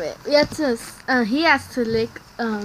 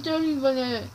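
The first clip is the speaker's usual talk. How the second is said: cheeks stuffed full; 3 semitones higher than usual. Real, not acted. Marshmallows stuffed in mouth.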